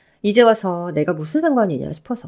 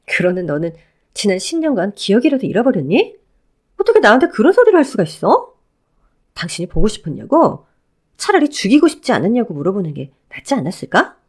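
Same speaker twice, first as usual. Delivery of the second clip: lightly voiced ex-wife, cold and scornful; a hint of a scornful woman cutting him down; 4 dB louder than usual. Ex-wife rebuffing her ex-husband, lightly voiced cold scorn.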